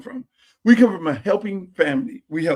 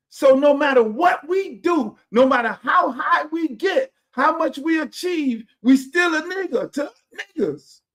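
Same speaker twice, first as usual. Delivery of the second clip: impassioned; 6 semitones higher than usual. Real, not acted. Preaching-style rant about achievement.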